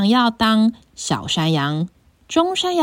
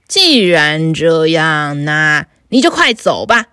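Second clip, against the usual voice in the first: lower, gruff troll threat; a bullying troll, lightly lowered; big troll; 7 semitones lower, 3 dB louder, slower than usual. Acted. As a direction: growl it like a hungry troll. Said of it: "大妖怪说".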